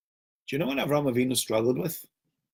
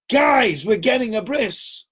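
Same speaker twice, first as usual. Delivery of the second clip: mock proud announcement; 8 semitones higher, slower than usual. Avram announcing to household.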